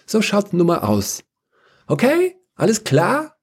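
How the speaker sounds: lightly voiced chirpy administrator; breezy Regine. Regine telling the council the budget is gone, breezy. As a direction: deliver the refusal casually, ending high.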